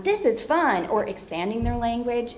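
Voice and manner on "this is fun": put-on higher, brighter modeled phrase for a toddler; modeling for a child. Shown as a demonstration. Therapist modeling a short script for a child, higher. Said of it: "So it might be like".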